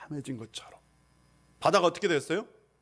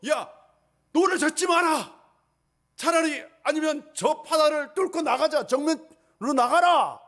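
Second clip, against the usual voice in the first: urgent orders; 8 semitones higher than usual. Acted. Fisherman disciple shouts orders in the storm. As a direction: urge the crew on, raised voice. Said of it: "한다든지".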